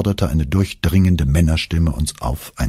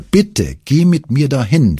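put-on higher, begging boy's plea; pleading; 9 semitones higher, 3 dB louder than usual. A narrator's reading. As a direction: beg your mother, reaching up in the voice. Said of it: "flehte ich".

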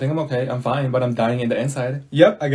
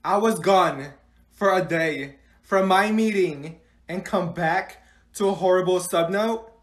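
stern teacher; 3 semitones higher than usual. Acted. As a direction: scold the class. Teacher addresses class.

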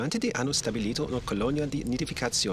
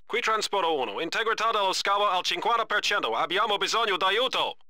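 urgent distress call; 5 semitones higher than usual. Acted. Transport under fire, calling help.

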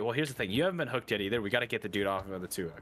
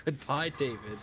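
sing-song mocking goodbye; mock farewell voice; 4 semitones higher, slower than usual. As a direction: wave him off in a silly voice.

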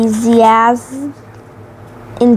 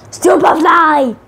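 higher, slow showman cry of the name; dramatic name call; 7 semitones higher than usual. A narrator's reading. Narrator introduces the villain, drawn-out showman call. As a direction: belt the name like a ring announcer.

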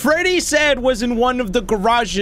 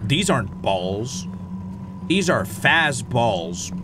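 much lower, slow mock Freddy voice; imitating Freddy; 9 semitones lower, 4 dB quieter, slower than usual. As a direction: put on a deep slow mascot voice. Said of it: "Freddy out here like".

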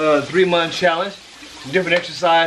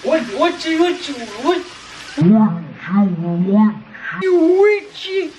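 squeaky mock question; 6 semitones higher, much slower than usual. Teasing squeaky what you.

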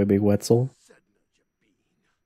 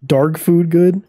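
laughing; 5 semitones higher, 5 dB louder, much slower than usual. Real, not acted. Laughing at own stumbled words.

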